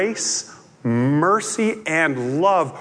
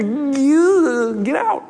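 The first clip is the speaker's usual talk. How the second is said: mock crowd demand; 10 semitones higher, 4 dB louder than usual. Frightened townspeople expel Jesus.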